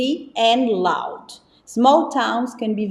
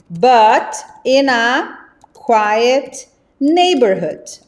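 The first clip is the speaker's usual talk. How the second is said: slow dictation; 3 dB louder, much slower than usual. Shown as a demonstration. Teacher dictating a model sentence to students, slow. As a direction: give the sentence slowly to take down. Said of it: "Olha que frase".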